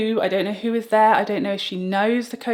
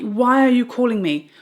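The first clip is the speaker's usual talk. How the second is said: loud exasperated question; 5 semitones higher, 6 dB louder than usual. Retold or imitated. Loud retelling vs calm retelling.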